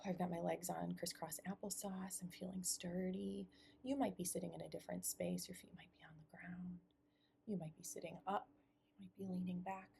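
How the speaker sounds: hushed guidance, trailing into near-whisper at times; guided meditation. Acted. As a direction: ease listeners gently into settling down. Begins leading a meditation.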